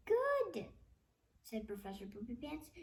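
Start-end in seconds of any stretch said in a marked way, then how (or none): 0.1-0.7 gleeful villain. Acted. Villain professor gloats.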